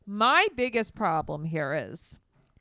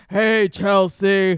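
put-on slow, loud baby-talk greeting; cutesy baby voice; 10 dB louder, much slower than usual. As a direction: coo his name like a grown man baby. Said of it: "You talk like a baby".

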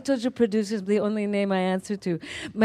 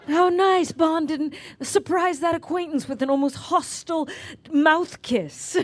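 sarcastic; 8 semitones higher than usual. Retold or imitated. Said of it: "sarcastic praise".

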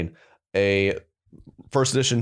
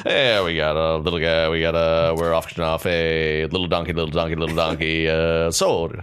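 auctioneer; 6 semitones lower than usual. Pretend. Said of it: "inadvertently buy".

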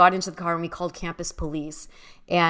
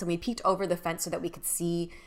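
whispering; 7 dB quieter than usual. Real, not acted. Sneaking up to the window.

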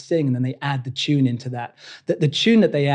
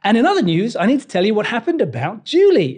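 higher, brighter and louder news read; cheerful good-news anchor; lightly voiced happy newsreader; upbeat newsreader; 5 semitones higher, 3 dB louder than usual. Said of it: "they might say".

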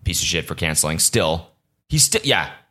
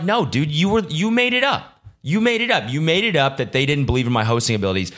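retold protest; 7 semitones higher than usual. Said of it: "I was like".

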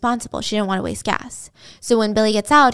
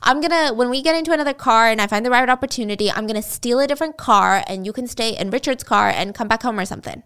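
promising; 3 semitones higher than usual. Retold or imitated. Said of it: "he's promising her".

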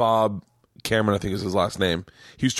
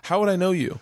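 incredulous, raised pitch; 9 semitones higher than usual. Retold or imitated. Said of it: "And I went".

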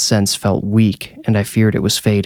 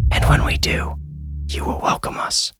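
eerie unvoiced whisper of two small children; ghostly children whispering; 6 semitones lower, 6 dB quieter than usual. A narrator's reading. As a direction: breathe it like ghost children close in his head. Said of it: "the girl said".

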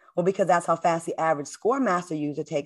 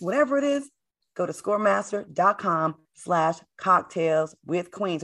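ad read. Acted. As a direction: spell out the web address for listeners. Reads the sponsor ad.

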